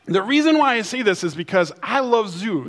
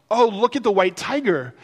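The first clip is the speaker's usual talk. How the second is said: lightly voiced awed onlooker; a touch of mock wonder; excited zoo visitor; 4 semitones higher than usual. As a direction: imitate a passer-by pointing out an animal, higher voice. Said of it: "somebody will come up and they'll say".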